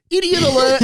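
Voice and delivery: shouting the alarm at the school headmaster; mock alarm shout. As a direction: blare it like a siren.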